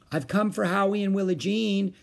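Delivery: high, singing polite announcement; visiting mother. A narrator's reading.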